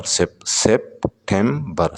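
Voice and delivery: सेप्टेम्बर said slowly, syllables apart; slow syllable demo. Shown as a demonstration. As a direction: break सेप्टेम्बर into its beats. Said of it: "सितंबर में तीन syllable". ("सेप्टेम्बर" धीमे, syllable तोड़कर)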